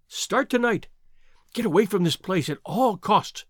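rising, pleading warning; urgent warning. Acted. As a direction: beg him to flee tonight. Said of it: "she cried".

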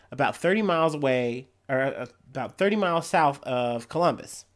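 measured headline-and-story reading voice; news read. Real, not acted. Podcaster reading an Ohio zebra attack story, news read. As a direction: read it out like a local news item.

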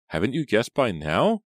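high, loud, thrilled question; excited cry. A narrator's reading. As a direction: cry it out, eager to tell. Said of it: "cried Kate".

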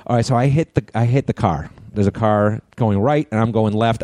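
ordinary talk

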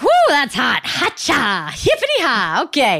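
high panting yelps from the heat; gasping at spicy heat. Retold or imitated. Acting out eating hot chicken.

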